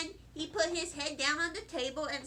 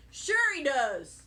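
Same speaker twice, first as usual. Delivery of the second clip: louder and slow, a dad backing Mom up; knowing dad; 7 dB louder, slower than usual. A narrator's reading. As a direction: lean into it, slow and firm. Dad backs up Mother.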